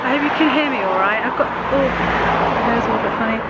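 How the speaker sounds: croaky voice from a cold; hoarse croaky voice, getting over a cold. Real, not acted. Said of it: "I've still got a bit of a croaky voice".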